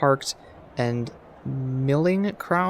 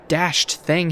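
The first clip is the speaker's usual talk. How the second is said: upper-class English curse; 4 semitones higher, 3 dB louder than usual. Acted. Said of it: "he cursed in upper-class English tones".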